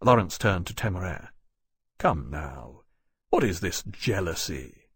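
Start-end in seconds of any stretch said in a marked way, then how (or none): 2.0-4.9 low, slow, gentle reproach; soft chiding. A narrator's reading. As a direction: chide him softly, pitched down. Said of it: "he said softly".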